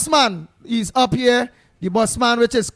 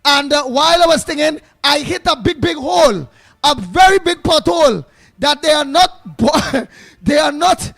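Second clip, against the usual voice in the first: mock boss man caller. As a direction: play the boss man phoning in to complain, hammed up. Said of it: "boss man will call in".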